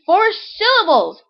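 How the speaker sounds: high, drawn-out wow from a teacher; shocked, keeping composure. A narrator's reading. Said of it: "trying to retain her composure".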